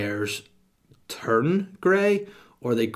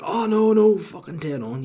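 fake cheery; 7 semitones higher, 5 dB louder than usual. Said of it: "but yet he's like".

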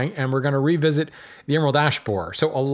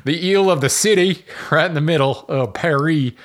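louder, higher mock French accent; horrible French accent; 4 semitones higher, 4 dB louder than usual. Host joking about the island in Paris, hammed-up French accent. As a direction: ham up a bad French accent. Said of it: "Switched into my horrible French accent".

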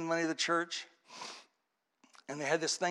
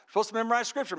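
pastor's instruction; 3 semitones higher, faster than usual. Retold or imitated. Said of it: "Pastor said".

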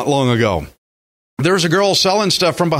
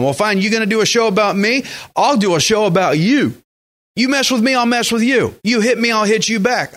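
mock tit-for-tat comeback, pitched up; combative retort; 5 semitones higher than usual. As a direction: play at squaring up for a fight, higher. Acting out a vengeful retort.

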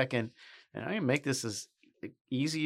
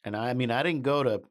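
mock-humble simple country boy; fake bashful aw shucks. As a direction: play it falsely modest and folksy. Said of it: "I'm just a simple country boy".

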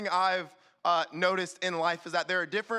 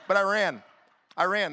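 louder, punching I ran; emphatic; 5 dB louder than usual. Real, not acted. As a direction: admit it with a loud punch. Emphatic admission, loud.

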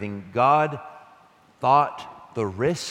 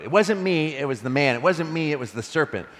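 mock blame shifting; 4 semitones higher than usual. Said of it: "they both scapegoat".

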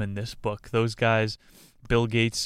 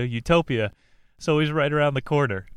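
sarcastic; 4 semitones higher, 4 dB louder, faster than usual. Acted. Sarcastic about utopia.

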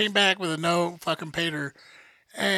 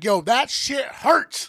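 a slow, crying yelp of pain; retold pained yell; 4 semitones higher, much slower than usual. Patient retelling his pain to the dentist, slow crying yelp. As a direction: drag it out as if it really hurts.

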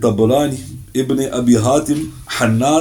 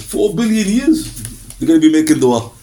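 emphatic reply; 3 semitones higher than usual. Retold or imitated.

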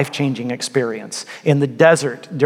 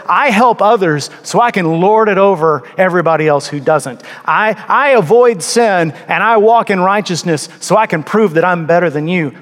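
a hint of a self-righteous boaster, slightly higher; mock the proud churchgoer lightly; smug braggart; 4 semitones higher, 3 dB louder than usual. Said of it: "loud and, and braggy like that".

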